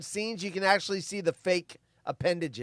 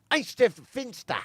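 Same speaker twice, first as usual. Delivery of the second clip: mock-German gibberish, higher; Hans Gruber; 5 semitones higher than usual. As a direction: imitate a film villain's garbled German. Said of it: "speaks in Die Hard is mostly gibberish".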